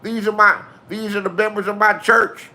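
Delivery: A singer yelling at the repo men. Retold or imitated. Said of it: "He said".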